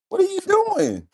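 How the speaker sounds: squeaky high question to the dog; dog talk. Real, not acted.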